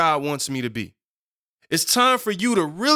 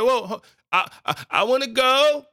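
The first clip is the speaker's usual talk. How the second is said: put-on higher-pitched child begging to come along; pleading child; 7 semitones higher than usual. Child watching parents leave the house, pleading to go. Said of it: "You ever saw your parents when you were younger and they leaving".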